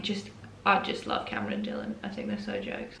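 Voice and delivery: soft unvoiced whisper. Real, not acted. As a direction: whisper it like a secret. Aside about loving Cameron and Dylan.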